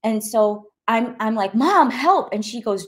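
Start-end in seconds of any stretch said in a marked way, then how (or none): 1.5-2.3 cry for help. Retold or imitated.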